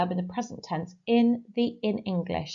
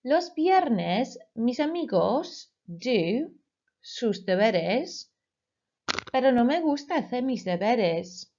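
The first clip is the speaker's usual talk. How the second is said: slow dictation; 3 semitones higher than usual. Shown as a demonstration. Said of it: "I will say the Spanish sentence twice".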